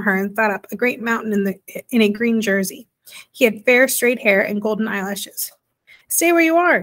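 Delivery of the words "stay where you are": loud and high, shouted in alarm; a startled boy's shout; frightened cry. A narrator's reading. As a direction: yell it to keep her back. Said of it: "he cried".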